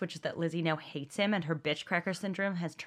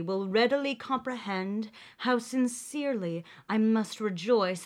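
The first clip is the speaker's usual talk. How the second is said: lightly voiced smug gentleman; sexy man voice; 3 semitones higher than usual. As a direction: read as a suave suitor. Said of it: "my sexy man voice".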